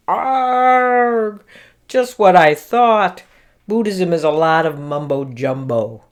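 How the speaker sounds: exasperated listener's outburst, hammed up; mock-grumble with a drawn-out, high opening groan; mock shouting. Podcaster imagining fed-up listeners, mock shouting. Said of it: "listeners mumbling or even shouting".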